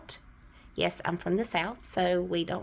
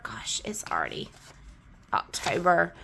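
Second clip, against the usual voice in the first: whispered aside; 3 semitones lower, 3 dB quieter than usual. Real, not acted. Surprised at the date, she whispers an aside to herself. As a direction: whisper it to yourself, barely voiced. Aside while stuffing budget envelopes.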